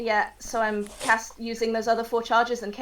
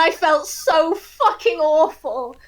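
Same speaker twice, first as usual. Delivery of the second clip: ordinary talk, nothing marked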